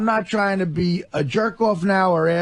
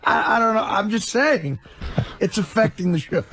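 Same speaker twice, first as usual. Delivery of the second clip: laughing; 3 semitones higher than usual. Real, not acted. Laughs off being pressed.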